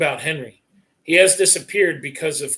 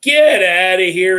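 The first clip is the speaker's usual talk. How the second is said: grinning disbelief; 3 semitones higher, 6 dB louder, slower than usual. Acted. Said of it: "A grin spreads on his face".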